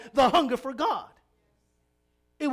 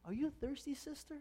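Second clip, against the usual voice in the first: selective, private asking; 3 semitones higher, 14 dB quieter than usual. Retold or imitated. Preacher mimicking a selective question to one sister, hushed. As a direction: ask one person very softly. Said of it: "He didn't be selective and say".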